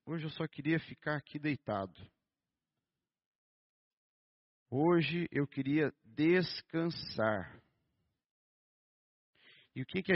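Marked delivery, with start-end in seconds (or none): 0.0-7.6 lightly acted exhaustion; weary sigh. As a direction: drag it out like you want to lie down. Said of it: "a gente fala assim".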